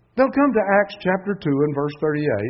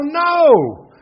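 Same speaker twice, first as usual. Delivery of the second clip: sharp, much higher and louder "No!"; retold yell; 13 semitones higher, 11 dB louder than usual. Radio caller rejecting the verse, yelling no. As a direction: bark it back like a stubborn caller. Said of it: "And he would yell".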